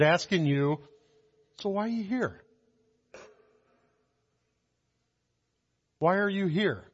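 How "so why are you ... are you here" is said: soft, searching question; still small voice. Acted. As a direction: ask it quietly, then let it hang and repeat. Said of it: "in a still small voice".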